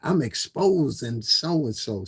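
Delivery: mocking gossip. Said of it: "do the little po-, what's the shit called?".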